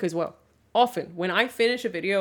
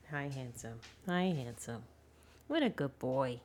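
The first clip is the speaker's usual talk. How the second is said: soft cooing; 7 semitones lower, 7 dB quieter than usual. Real, not acted. Cooing to dog.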